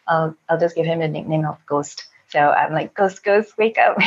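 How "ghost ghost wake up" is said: higher, urging wake-up call; retold waking call. Woman waking Ghost in her story, urging retold call. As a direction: nudge a sleeper awake, lightly acted. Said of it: "waking him up".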